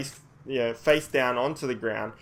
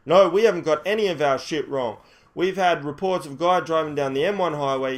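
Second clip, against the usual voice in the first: raised, forceful rebuttal; insistent officer; 4 semitones higher, 5 dB louder than usual. Retold or imitated. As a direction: imitate a cop arguing back hard. Acts policeman arguing back.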